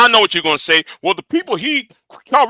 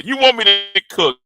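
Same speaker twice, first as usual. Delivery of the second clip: mock challenge. Challenging viewers who egg him on.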